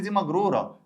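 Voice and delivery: high-pitched imitation of an objecting student; student's objection. Teacher voicing a student's wrong answer, pitched high. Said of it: "هتقول لي".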